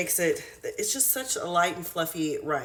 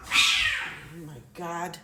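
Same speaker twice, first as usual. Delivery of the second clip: startled; much slower than usual. Real, not acted. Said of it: "Scare the shit out of me".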